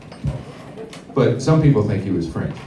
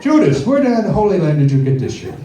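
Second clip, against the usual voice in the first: lightly voiced stoner Jesus, rising on the last question; a laid-back stoner Jesus; stoned Jesus; 5 semitones higher than usual. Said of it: "he probably sounds something like this".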